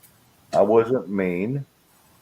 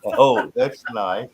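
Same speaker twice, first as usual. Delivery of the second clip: slow polite brush-off; much slower than usual. Retold or imitated. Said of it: "I love that".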